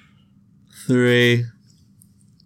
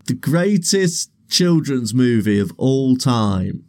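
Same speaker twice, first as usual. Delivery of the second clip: announcer style; 3 semitones higher, slower than usual. Acted. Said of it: "hosts announcing the episode theme".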